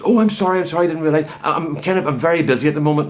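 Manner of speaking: hammed-up sorry from a caught-out salesman; flustered apology. Salesman grovelling to the insulted customer, high and flustered.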